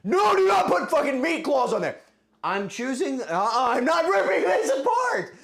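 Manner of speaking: high, loud protesting scream. Real, not acted. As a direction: yell in real protest at chat. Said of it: "I'm losing my voice again. I can't be screaming".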